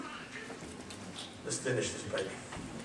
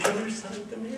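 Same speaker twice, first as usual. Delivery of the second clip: gentle coaxing father; 3 semitones higher, 5 dB quieter than usual. Retold or imitated. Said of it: "and he said".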